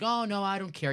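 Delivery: high, mock-modest brush-off; mock humble. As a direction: fake humility, lifted pitch. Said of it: "He wasn't like".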